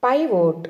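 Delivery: "పైవోట్" said as PIE-vote; careful teacher's "పైవోట్", pie then vote; model pronunciation. Shown as a demonstration. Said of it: "ఎలా పలకాలి".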